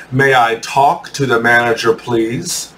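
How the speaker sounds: mildly courteous, please softened and lifted at the end; polite request. Acted. Teacher modeling a customer's request to staff, mildly polite. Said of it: "So you politely say".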